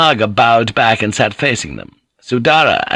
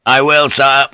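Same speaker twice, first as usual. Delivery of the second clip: higher, louder proud soldier; 5 semitones higher, 5 dB louder than usual. A narrator's reading. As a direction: answer proudly and firmly. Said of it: "the soldier said proudly".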